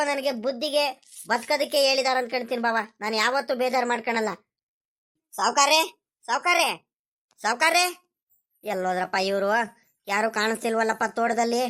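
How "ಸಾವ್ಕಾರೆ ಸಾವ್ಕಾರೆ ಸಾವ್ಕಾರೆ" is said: hollering the master's name across the farm; calling out. Acted. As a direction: call out for the boss from a distance. Calling for the landlord outdoors.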